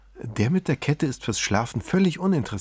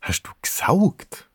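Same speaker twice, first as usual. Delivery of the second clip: whispered question; 6 semitones higher, slower than usual. Acted. Erika asks from the kitchen.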